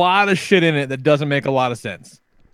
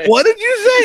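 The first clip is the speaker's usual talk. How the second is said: much higher and louder, laughing through it; disbelieving, breaking into laughter; shocked laughing question; 6 dB louder than usual. Retold or imitated. Father asking his son what he said, high laughing disbelief.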